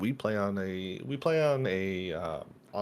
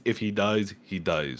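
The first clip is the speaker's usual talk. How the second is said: Rocky movie quote. Retold or imitated. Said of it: "that scene from one of the Rocky movies".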